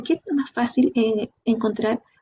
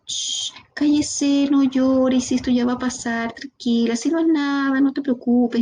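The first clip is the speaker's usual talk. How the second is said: hushing comfort; 3 semitones higher than usual. Retold or imitated. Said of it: "¿por qué muchas veces le decimos".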